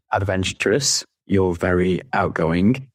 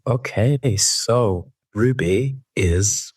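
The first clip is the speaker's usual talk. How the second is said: posh podcast voice; 3 semitones higher, slower than usual. Real, not acted. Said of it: "You've got a posh voice".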